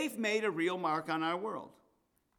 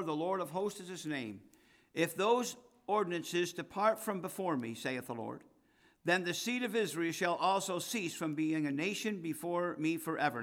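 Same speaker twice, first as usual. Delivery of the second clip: scripture reading. Acted. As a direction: proclaim the verses to the church. Reads scripture aloud to congregation.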